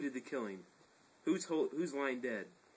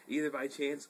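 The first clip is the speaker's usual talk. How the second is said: laughing; 2 semitones higher than usual. Real, not acted. Reader giggles during the scene.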